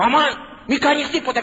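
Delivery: high-pitched acted plea; imitated wife crying out. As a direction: call it out as a frantic wife. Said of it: "φώναζε η γυναίκα του". (ικετευτική φωνή της γυναίκας)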